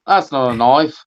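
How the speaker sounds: put-on quoting the movie in a light Australian accent; mock Australian accent. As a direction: toss off the line like a half-hearted Aussie hero. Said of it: "speak Australian".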